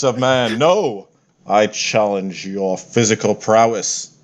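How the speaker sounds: grand, slow, self-satisfied deity; lightly voiced pompous war god; boastful god voice. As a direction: announce yourself as an unbeatable god. Fitander shrugs off the taser.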